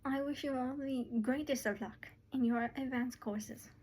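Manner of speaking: lightly British well-wishing; a hint of a British accent; British-adjacent accent. Madam Fuchsia wishes graduates luck in courses, lightly British. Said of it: "trying to make her British".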